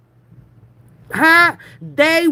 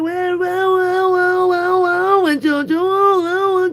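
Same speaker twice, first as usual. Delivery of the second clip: high, teasing singsong; high mocking well well; 7 semitones higher than usual. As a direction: sing it up high to mock her. Mocking singsong about caller.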